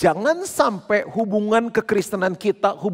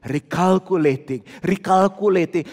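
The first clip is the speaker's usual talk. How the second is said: lower, emotionless machine read-out; a sat-nav repeating itself in a lower, toneless voice; robotic GPS voice; 3 semitones lower than usual. Retold or imitated. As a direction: drone it like a sat-nav with no feeling. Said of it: "Nggak ada emosi ... nadanya gitu aja".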